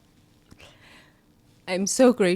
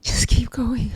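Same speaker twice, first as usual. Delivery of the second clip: whispered encouragement; 2 semitones higher than usual. Real, not acted.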